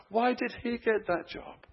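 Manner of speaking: high-pitched, put-on grumbling; resentful complaint. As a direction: whine in envious disbelief. Acts resentful church member's complaint.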